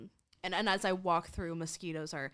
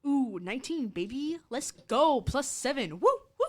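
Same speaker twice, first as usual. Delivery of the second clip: loud, high celebration of a roll; excited cheer; 7 semitones higher, 9 dB louder than usual. Real, not acted. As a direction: whoop it up over the dice.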